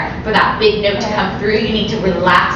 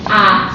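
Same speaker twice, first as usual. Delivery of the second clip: open ah; 3 dB louder than usual. Shown as a demonstration. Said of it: "everyone say, "Ah".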